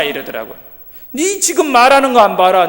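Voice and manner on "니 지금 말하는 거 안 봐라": higher, louder outburst at the bully; angry retort. Retold or imitated. Boy angrily confronts the classmate blocking his preaching. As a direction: snap back in anger.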